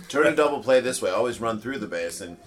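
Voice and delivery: loud cheery coach instructions. Retold or imitated. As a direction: bark out tips like coach. Imitating show's coach lessons.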